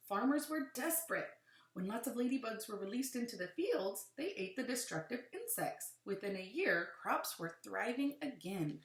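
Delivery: animated read-aloud with rising and falling emphasis; clear, lilting picture-book narration; reading to children. Acted. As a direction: read it to a class, punching key words.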